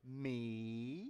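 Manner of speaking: soft, drawn-out punchline sliding up; whispering little boy. Acted. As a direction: imitate a guilty child's small secret. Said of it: "the little boy goes".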